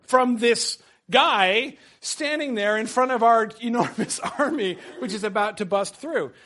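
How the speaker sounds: laughing through the wild men's mock panic; hammed-up terror, giggling. Professor voicing terrified wild men, laughing. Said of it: "looking around like".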